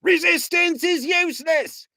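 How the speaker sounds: loud dim-witted Vogon guard shout. A narrator's reading. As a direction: bark the stock phrase like a dim brute. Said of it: "shouted the Vogon guard".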